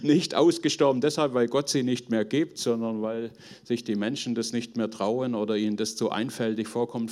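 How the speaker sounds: normal talking voice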